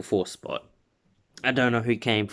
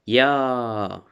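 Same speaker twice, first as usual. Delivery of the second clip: a louder "Yeah" that is forced and hollow; fake excitement; 2 semitones higher, 4 dB louder than usual. Deku winning the race but bored, forced cheer. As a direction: try to sound thrilled while actually bored. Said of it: "trying to be excited, but he's just bored".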